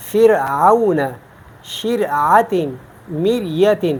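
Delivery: فرعون and شرعت with a light R; thin ra. Shown as a demonstration. Teacher giving examples after kasra, thin ra. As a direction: keep the unvowelled ra in مریت thin. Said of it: "ہم را کو باریک پڑھتے ہیں".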